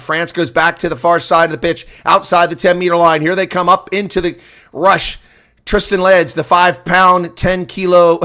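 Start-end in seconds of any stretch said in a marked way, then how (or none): none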